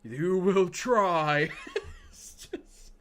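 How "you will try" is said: slow, loud, laughing; Palpatine impression. Streamer hamming up the emperor for chat. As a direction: stretch it out like a gloating emperor. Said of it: "I'll do the impression for you".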